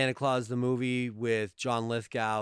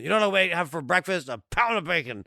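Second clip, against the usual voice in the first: Burgess Meredith impression; 3 semitones higher, 4 dB louder than usual. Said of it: "I love me some Burgess Meredith".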